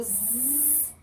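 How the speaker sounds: "Z" as one long buzz; som de Z. Shown as a demonstration. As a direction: hold the sound zzz for "Z". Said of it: "Eu falo Z". ("Z" como zumbido prolongado)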